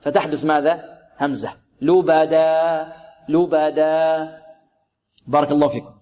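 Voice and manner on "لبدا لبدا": slow "لبدا", long last vowel shut by a glottal stop; hamza at alif's end. Shown as a demonstration. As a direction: close the throat after the aa of "لبدا". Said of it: "يغلق حلقه مكان خروج الهمزة". ("لبدا" بهمزة في آخر الألف)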